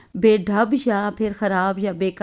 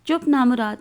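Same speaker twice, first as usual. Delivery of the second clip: scolding. Acted. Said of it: "بلند آواز میں ڈانٹ رہی ہے".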